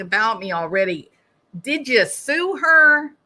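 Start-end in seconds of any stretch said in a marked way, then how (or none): 1.6-3.1 indignant. Real, not acted. Indignant question.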